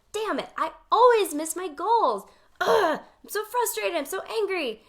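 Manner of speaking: a hammed-up angry rant at missed goals; mock frustration. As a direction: act out being fed up with yourself. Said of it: "Option two is like".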